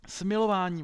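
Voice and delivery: high, loud plea; crying for mercy. A narrator's reading. Pupil begging the headmaster for mercy, crying out. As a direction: call out desperately, pitched high.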